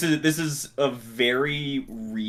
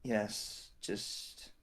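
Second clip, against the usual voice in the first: whispering; 12 dB quieter than usual. Acted. Shaken character answers a friend.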